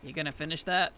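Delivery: lightly voiced Chicago accent raccoon. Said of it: "in the most Chicago accent".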